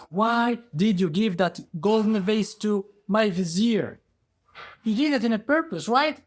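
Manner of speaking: high, forceful questioning; acted indignant accusation; accusing king. King interrogates accused Ghirab.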